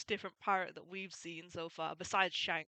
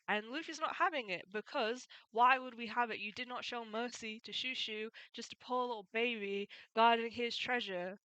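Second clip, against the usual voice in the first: raised, indignant rant; 3 semitones higher, 4 dB louder than usual. Real, not acted. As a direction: get worked up about a bully. Speaker outraged at tamer.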